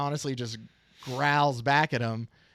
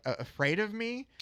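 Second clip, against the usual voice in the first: mock frightened stammer; 8 semitones higher, 3 dB quieter than usual. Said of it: "very wide-eyed".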